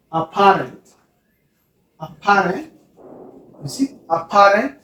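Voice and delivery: apparent with a long first vowel; model word for class. Shown as a demonstration. Teacher drilling a long sound with the class, clear and careful. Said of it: "For example here we have".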